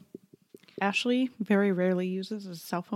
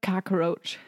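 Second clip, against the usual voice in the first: put-on New York accent. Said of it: "He says".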